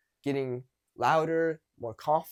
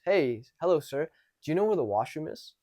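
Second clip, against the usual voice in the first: slightly raised, clear address; louder voice. Shown as a demonstration. Practicing on a stranger by asking for the washroom, a bit louder. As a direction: project a polite question. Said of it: "talk in a louder and louder voice".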